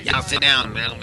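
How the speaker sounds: put-on rough Boston accent, half-hearted; a so-so Boston guy telling you to sit down. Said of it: "I don't have a good Boston accent".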